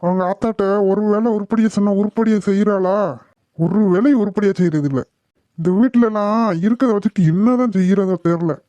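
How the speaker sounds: irritated scolding, mildly heated; acted anger. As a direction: grumble crossly at a family member. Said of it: "ஏங்க இப்படி கோவப்படுறீங்க?".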